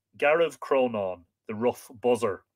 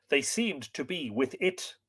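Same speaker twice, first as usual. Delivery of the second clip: softer, meek and hesitant; humble servant; 3 semitones higher, 6 dB quieter than usual. Acted. Servant humbly answers his master Fionn, soft and meek. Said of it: "said the servant humbly".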